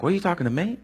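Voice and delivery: soft, disbelieving mumble; incredulous Gideon. Acted. Gideon asks the angel, softly disbelieving. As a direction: act like he can't believe it's meant for him. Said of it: "And Gideon's like".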